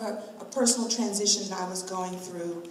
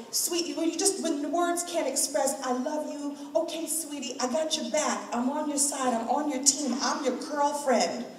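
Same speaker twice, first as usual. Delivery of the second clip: mother's tender voice; 5 semitones higher than usual. Retold or imitated. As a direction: say it like a mom comforting her kid. Voicing her mother's loving words.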